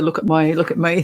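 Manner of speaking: lightly imitated Aussie accent. Host echoing the guest's comedy catchphrase, attempted Aussie accent. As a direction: have a go at a broad Aussie "me". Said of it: "trying to do my Aussie accent".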